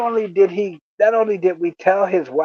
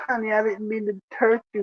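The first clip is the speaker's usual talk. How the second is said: retold apologetic plea; 3 semitones higher, 6 dB quieter, faster than usual. Husband apologizes to his upset wife, soft mock pleading.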